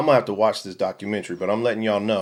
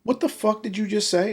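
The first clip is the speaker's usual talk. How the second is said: higher, incredulous, half-mock; stunned disbelief; 10 semitones higher than usual. Husband reacts to wife's story, higher and incredulous. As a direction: react like you can't believe what you heard. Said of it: "And I'm looking at her going".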